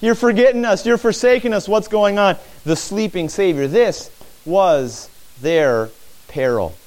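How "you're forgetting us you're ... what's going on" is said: raised, pleading complaint; Jeremiah's lament. Retold or imitated. Preacher voicing Jeremiah's complaint to God, higher and pleading. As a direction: cry out as if abandoned. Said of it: "This is Jeremiah saying".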